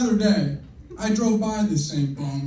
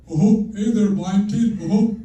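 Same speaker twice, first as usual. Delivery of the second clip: Robin Williams impression; 3 semitones higher, 5 dB louder, slower than usual. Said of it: "the one and only Robin Williams".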